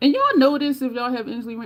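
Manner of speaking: loud yell. Showing the Red Queen shade to y'all, yelling. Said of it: "Why am I yelling?".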